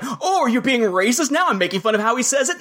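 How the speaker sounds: snarky mock accusation. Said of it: "one person snarky".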